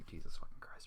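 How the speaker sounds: a disgusted whisper under the breath; whispered curse. Real, not acted. Reader muttering to himself over the story, in a whisper. Disgusted aside mid-reading.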